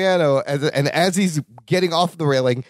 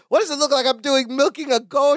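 indignant Balki; 6 semitones higher than usual. Retold or imitated. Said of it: "Balki goes".

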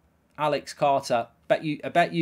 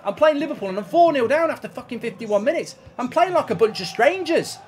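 higher and louder exasperated tirade; ranting at the chat while losing badly; furious rant; 6 semitones higher, 8 dB louder than usual. Real, not acted. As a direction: let the whole rant pour out, raised. Ranting, four nil down.

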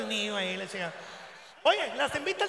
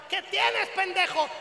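mom yelling; 5 semitones higher than usual. Retold or imitated. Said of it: "mamá me gritaba".

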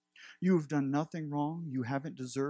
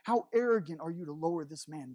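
indignant scolding; 6 semitones higher than usual. Acted. Onlookers scold the man lowered through the roof, in mounting indignation. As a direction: scold the intruder like an offended religious onlooker.

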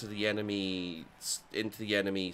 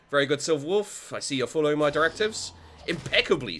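put-on posh accent; 6 semitones higher, 5 dB louder, faster than usual. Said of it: "I have no idea why I'm doing the accent".

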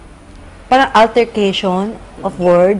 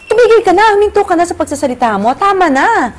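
much higher and louder, fast, cutting him off; angry shout; 11 semitones higher, 5 dB louder than usual. Retold or imitated. To the rude passenger on the plane, furious shout. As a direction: yell at him to stop talking, now. Retold quarrel, telling him stop.

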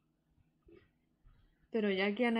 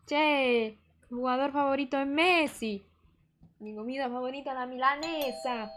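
put-on 1 Argentine accent. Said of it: "soy muy mala para el acento".

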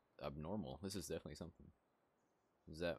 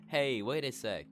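put-on high, loud, slow girly call; hammed-up Aubrey shout; 8 semitones higher, 10 dB louder, slower than usual. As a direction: call after her like a stuck girl. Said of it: "I'm not doing voice acting".

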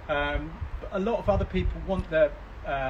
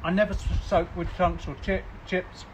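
talking through a mouthful; mouth full; 4 semitones higher than usual. Real, not acted. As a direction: say it while chewing. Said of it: "I shouldn't talk with my mouth full".

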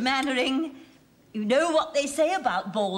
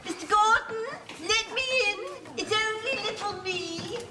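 coy pleading; 9 semitones higher than usual. Acted. Mrs Fox coaxes clerk at door.

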